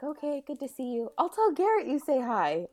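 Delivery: faux-friendly sign-off; sugary parting jab. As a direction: toss it off sweetly as you leave. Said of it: "and she's like".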